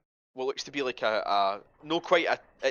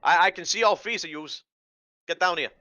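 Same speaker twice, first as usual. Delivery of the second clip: raised-pitch Boston hag; higher hag voice, not quite aggressive; night hag with Boston accent; 7 semitones higher, 5 dB louder than usual. Acted. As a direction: order intruders about as a Boston-accented hag. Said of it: "it's a, it's a night hag".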